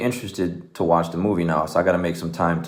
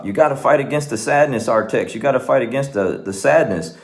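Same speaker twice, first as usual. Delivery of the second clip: higher-pitched mock pleading; insistent pep talk, pitched up; retold urgent plea; 5 semitones higher than usual. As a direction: imitate a kid urging his horse to fight. Retold kid pleading with sinking horse.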